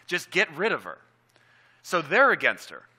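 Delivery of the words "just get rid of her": mildly acted exasperated plea; lightly voiced pleading. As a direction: imitate disciples begging to be rid of someone. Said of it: "They were pleading with him".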